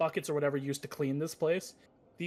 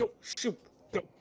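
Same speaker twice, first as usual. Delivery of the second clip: shooing, high-pitched; 6 semitones higher than usual. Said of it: "poke at you with the gun, like".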